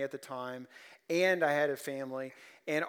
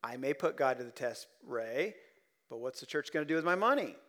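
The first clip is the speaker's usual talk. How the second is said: skeptical listener. Pretend. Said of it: "You may be asking".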